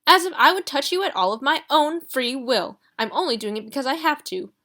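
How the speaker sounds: Marley grumbling behind Ruby; grousing. Acted. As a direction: complain like an offended butler. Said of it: "groused Mister Marley".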